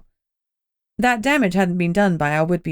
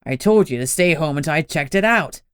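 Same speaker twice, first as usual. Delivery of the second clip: gruff cop boss; 2 semitones lower than usual. Acted. Gunnar's voice in the story.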